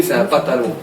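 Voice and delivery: Walloon accent on "pantalon"; accent wallon. Shown as a demonstration. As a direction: say "pantalon" the Walloon way, first nasal vowel opened to "patalon". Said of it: "dans, en Wallonie". (accent wallon, « pantalon » dit « patalon »)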